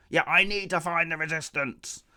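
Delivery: mock-declare it in a put-on voice; a hammed-up proclamation; put-on announcing voice; mock announcement. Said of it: "she just announces that she wants".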